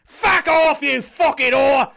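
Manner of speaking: shrieking high furious insults; screaming beachgoer. Retold or imitated. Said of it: "just being like".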